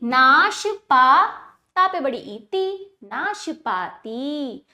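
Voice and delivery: नाशपाती slowly built up syllable by syllable; slow spelling-out of नाशपाती; broken, joined pronunciation. Shown as a demonstration. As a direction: draw out नाश and पा, then join नाशपाती. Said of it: "तोड़कर जोड़कर उच्चारण".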